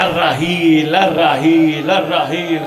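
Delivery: loud herald's cry; calling out loud. Acted. Herald calling through the streets, loud. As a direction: call it down the lanes like a herald.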